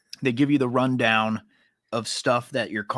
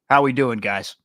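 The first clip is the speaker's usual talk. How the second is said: suburban white guy voice; 4 dB louder than usual. Retold or imitated. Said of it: "talking just like the most suburban white guy".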